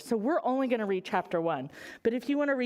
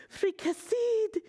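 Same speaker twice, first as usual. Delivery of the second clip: gurgling drowning pirate; 11 semitones higher, slower than usual. Acted. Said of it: "he said".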